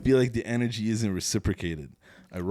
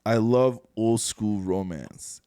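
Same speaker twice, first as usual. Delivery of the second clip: slow reading; much slower than usual. Shown as a demonstration. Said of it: "I can actually hear you say this sentence".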